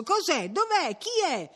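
high-pitched, agitated questions; urgent questioning. A narrator's reading. Villagers asking Ambrogio about the uproar, urgent questioning. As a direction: ask in a rising flurry of alarm.

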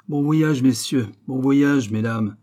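light, smiling send-off; charming smile. A narrator's reading. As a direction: wish them off with mock courtesy. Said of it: "dit le roi avec un sourire charmant".

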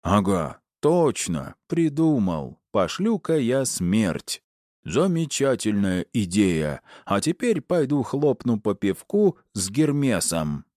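slow, high mocking parody of a husband; wife continuing her sarcastic impression of her husband. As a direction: play him as a lazy oaf, sneering. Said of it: "сарказма голосом изобразила ... бас мужа".

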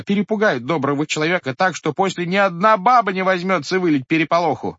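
high, loud awed pleading; horrified villagers. A narrator's reading. Villagers pleading with the head, high and horrified. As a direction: stress how hideous the faces were.

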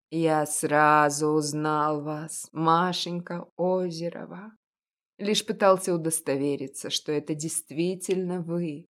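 put-on an elderly shopkeeper, knowing and gentle; a hint of a kindly old baker; old confectioner. Old confectioner speaks to Masha.

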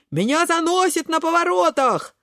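high, wailing complaint. A narrator's reading. Кабачок skidding on the turns, high wail. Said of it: "вопит Кабачок".

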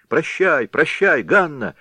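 high, loud crowd of lads calling; chorus of shouts. A narrator's reading. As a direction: yell it together, teasing. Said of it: "закричало несколько парубков". (хор озорных выкриков)

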